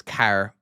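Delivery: car with a fronted vowel, like "care"; Irish pronunciation. Retold or imitated. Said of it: "one of my Irish friends says".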